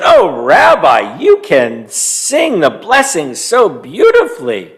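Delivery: slow admiring call to the rabbi; delighted old lady. Acted. Old lady to the roaring bear, lightly hammed-up praise. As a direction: praise him, a bit hammed up. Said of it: "Bobby Bryna said".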